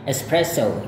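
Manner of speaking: espresso said American style. Shown as a demonstration. Teacher repeats the American espresso. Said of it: "gaya Amerika".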